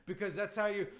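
put-on emphatic accented wrestler explanation; Iron Sheik. Wrestler setting the host straight, emphatic broken English. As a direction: lay down absurd rules in broken English. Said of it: "now Iron Sheik's yelling".

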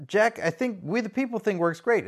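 usual speaking voice

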